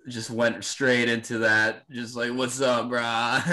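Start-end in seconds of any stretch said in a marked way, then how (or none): 2.3-3.4 lazy, flat surfer-dude greeting; monotone surfer voice. Retold or imitated. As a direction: drawl it like a beach surfer. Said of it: "monotone surf voice".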